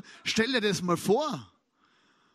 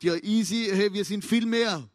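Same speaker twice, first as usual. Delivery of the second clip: casual Elisa; 6 dB louder than usual. Acted. Elisa voiced to frightened servant.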